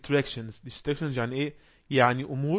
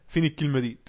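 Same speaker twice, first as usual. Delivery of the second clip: acted ridicule of a speaker; mock the other person's word lightly. Ignorant person scoffing at someone's pronunciation, mocking. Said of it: "يسخر من الإنسان اللي بيتكلم معاه".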